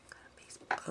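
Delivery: hushed aside to herself; whisper. Real, not acted. Checking her phone mid-tutorial, she whispers to herself. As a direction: breathes it under her voice.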